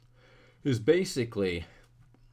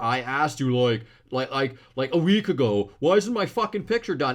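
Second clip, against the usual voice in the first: loud impatient demand, building from normal to heated; mock irate nagging that mounts; getting mad; 3 semitones higher, 6 dB louder than usual. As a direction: badger someone, higher and louder as it goes. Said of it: "they'll start getting mad at you".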